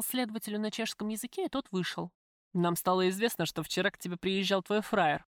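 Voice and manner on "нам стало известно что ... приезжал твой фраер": lightly voiced tough man; gangster, coolly menacing. Gangster tells the prisoner he knows of her visitor, cool. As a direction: speak as a matter-of-fact criminal.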